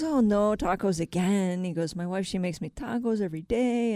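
lightly voiced construction worker Pablo; a hint of a put-on accent; character voice. Construction worker grumbling about his packed lunch, lightly put-on voice. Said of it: "I love the voice".

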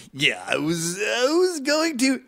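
stall, then launch up into a drawn-out "hotel"; imitating halting friend. Comic mimicking friend who jumps onto words, sudden high shout. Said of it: "So he'll go".

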